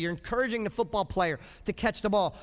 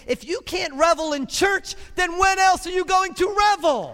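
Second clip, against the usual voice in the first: rising, louder, booming divine voice; voice of God; 10 semitones higher, 8 dB louder than usual. Retold or imitated. God challenging the church, loud and rising. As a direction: boom it out as God calling people to revel. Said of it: "And God is saying".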